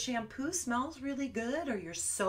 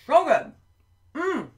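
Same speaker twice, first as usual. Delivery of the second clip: delighted; 6 semitones higher, 11 dB louder than usual. Pretend. Tasting the pretend apple.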